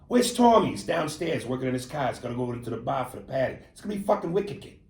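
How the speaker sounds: Boston local talk with dropped R's; Boston accent. Shown as a demonstration. Host acting out Bostonians' talk, Boston accent. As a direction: chat like a Bostonian about a buddy. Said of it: "that's an accent".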